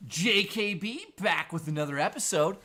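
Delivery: hyped show-intro voice; intro catchphrase. Shown as a demonstration. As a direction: announce it like opening your show. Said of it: "I used to do this".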